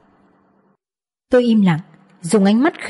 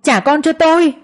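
anguished shout; 7 semitones higher than usual. Acted. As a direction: scream to get your child back. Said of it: "Tôi đau đớn nhìn họ hét lên". (hét lên đau đớn đòi con)

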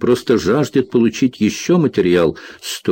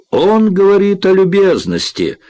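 put-on high, loud teasing announcement in an Irish accent; loud proclaiming; 10 semitones higher, 3 dB louder than usual. A narrator's reading. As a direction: proclaim it to the whole lab. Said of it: "громко провозгласила Морин". (громкое шутливое провозглашение)

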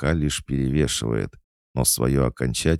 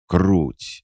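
high, loud burst of glee; overjoyed; 7 semitones higher, 6 dB louder than usual. Acted. Bespectacled boy thrilled by the fox, overjoyed. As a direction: blurt it, nearly jumping with joy. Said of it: "чуть не запрыгал от счастья".

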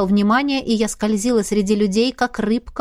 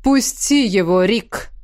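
cold; slower than usual. A narrator's reading. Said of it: "холодно произнёс Изергаст".

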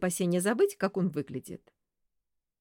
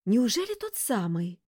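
gasping; 4 semitones higher, 3 dB louder than usual. Acted. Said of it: "ахнула сестрица".

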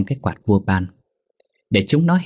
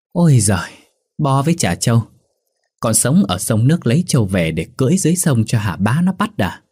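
scornful retort; 4 semitones higher than usual. Acted. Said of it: "Thằng bờm nguýt dài bảo".

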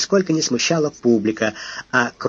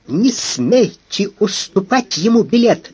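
higher, louder, slow command; shouting; 8 semitones higher, 4 dB louder, slower than usual. A narrator's reading. Lady shouting at the captain not to sell. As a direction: forbid him outright. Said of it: "закричала дама".

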